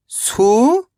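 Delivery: सू-र-मा split into separate syllables. Shown as a demonstration. Teacher sounding out a word for young pupils, syllable by syllable. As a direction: sound out सू-र-मा piece by piece. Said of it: "तो मिलके बन जाएगा सूरमा".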